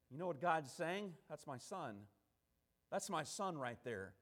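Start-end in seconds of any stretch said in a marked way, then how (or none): 1.3-4.1 low, hushed voice of God; acted soft, low-pitched affirmation; quiet declaration. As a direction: say it softly, as a father pointing out his son. Voicing God pointing out his Son.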